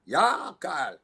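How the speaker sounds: put-on German-accented officer exchange. Officers calling each other over, German accent. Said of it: "really good German accent".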